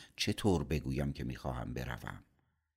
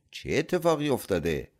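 higher, anxious question on entering; worried; 7 semitones higher, 4 dB louder than usual. A narrator's reading. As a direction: ask it with concern. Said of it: "با نگرانی وارد دفتر شد".

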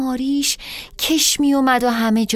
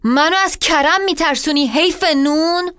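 angry shout; 3 semitones higher than usual. Acted. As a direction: hurl the insult. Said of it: "داد زد". (فریاد تحقیرآمیز)

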